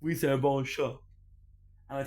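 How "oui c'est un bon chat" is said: French to the cat. Pretend. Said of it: "talk to him in French".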